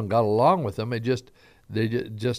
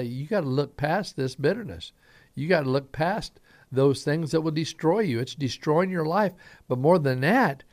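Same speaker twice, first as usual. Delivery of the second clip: earnest plea; 5 semitones higher than usual. Retold or imitated. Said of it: "he was telling them".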